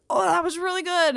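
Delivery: chirpy praise. Retold or imitated. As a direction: gush it like a cheerful nurse. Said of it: "they kept being like".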